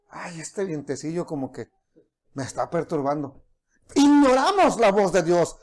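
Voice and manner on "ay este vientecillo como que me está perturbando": mock annoyed mumble. Person annoyed by gentle wind.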